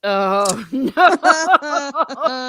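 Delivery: loud, high laughing protest; laughing dismay. Real, not acted. Host reacting to the Pope joke, laughing. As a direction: crack up while protesting.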